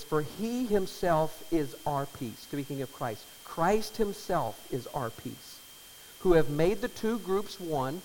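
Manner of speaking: slow, weighty scripture reading. Acted. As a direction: read the verse slowly, with reverence. Reads scripture aloud.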